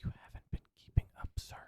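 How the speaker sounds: quick hushed teasing whisper. Acted. Needling the cohost again in a quick whisper. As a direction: whisper it fast, needling him.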